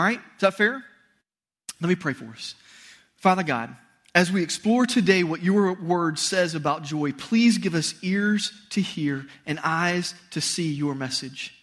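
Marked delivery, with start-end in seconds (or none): 3.2-11.5 slow, hushed prayer voice. Acted. Pastor leads the congregation in prayer, reverent and slow. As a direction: pray reverently, unhurried.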